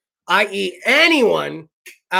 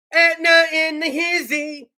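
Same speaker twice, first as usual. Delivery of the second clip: slow, drawn-out hype call; imitating a reporter's hype call; 6 semitones higher than usual. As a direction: stretch it out like a hype man. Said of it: "sit on the back of this dump truck".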